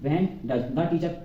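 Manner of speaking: when does the teacher, drawn out word by word; slow dictation. Shown as a demonstration. Teacher dictating the English question slowly to the class. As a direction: dictate it very slowly for students to copy. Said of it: "इसके बाद लगा देंगे does".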